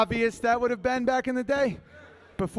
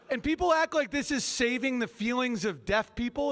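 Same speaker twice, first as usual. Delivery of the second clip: ordinary delivery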